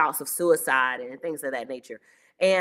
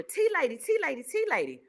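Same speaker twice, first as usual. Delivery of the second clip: calling out; 10 semitones higher than usual. Retold or imitated. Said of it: "all of a sudden I hear".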